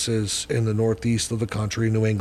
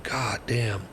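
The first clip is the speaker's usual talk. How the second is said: hushed, near-whispered reaction; stunned; 2 semitones lower, 7 dB quieter than usual. Retold or imitated. Recovering addict reacting to a profound remark, stunned. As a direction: say it under your breath, floored.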